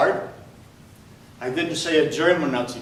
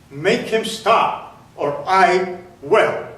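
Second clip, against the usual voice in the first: threatening guard; 2 semitones higher, 4 dB louder, much slower than usual. Retold or imitated. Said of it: "the same voice".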